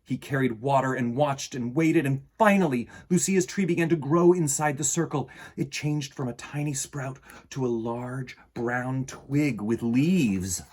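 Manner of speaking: put-on gentle read-aloud for children; storybook reading. A narrator's reading. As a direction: read it like bedtime story time. Reads picture book aloud.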